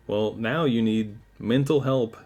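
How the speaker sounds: put-on line said in a light Russian accent; a hint of Russian accent, casual. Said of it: "now I'm doing a fucking Russian accent".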